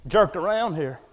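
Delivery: complaining, then loud and high on the final outraged questions; growing indignation. Retold or imitated. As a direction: build the grumble into an outraged cry. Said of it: "he probably feels like".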